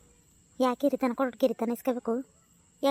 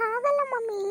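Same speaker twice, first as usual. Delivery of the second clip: put-on high girlish coaching; teen slowly correcting her mom; daughter's voice; 9 semitones higher than usual. Daughter coaches mother's English.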